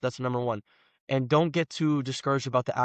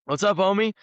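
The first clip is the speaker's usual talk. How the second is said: calling back; 7 semitones higher, 5 dB louder than usual. Retold or imitated. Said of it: "And I'm like".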